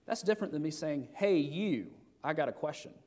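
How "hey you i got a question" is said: curt, rude ask. Shown as a demonstration. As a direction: demand it like she's a stranger. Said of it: "You, you see the difference there?".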